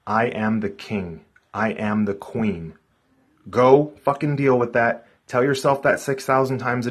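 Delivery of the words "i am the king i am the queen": slow, deliberate self-affirmation. Shown as a demonstration. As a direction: say each word slowly, like a mantra. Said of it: "then use that".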